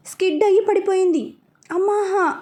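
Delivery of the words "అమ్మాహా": high yelp of pain from a fall; woman slipping on the steps, crying out; pained cry "ammaha". Acted. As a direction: cry out as you slip on the steps. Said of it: "అంటూ అరిచేసరికి".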